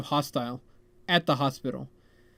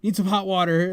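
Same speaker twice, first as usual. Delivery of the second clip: raised, urgent plea, louder at the start; shouted demand; 3 semitones higher, 4 dB louder than usual. Retold or imitated. Stressed guest shouting to friend's brother for hot water, shouted demand. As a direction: call it out, stressed and impatient. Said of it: "shouted out".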